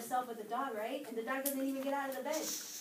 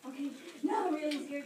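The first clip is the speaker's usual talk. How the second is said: louder frightened cry of now I'm really scared; 3 semitones higher, 4 dB louder than usual. Retold or imitated. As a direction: push the fear out on now. Girl's fear grows.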